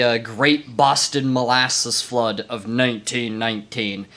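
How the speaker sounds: grave storyteller voice, slowed down; hammed-up solemn history narrator; mock documentary narrator. Mock dramatic story intro.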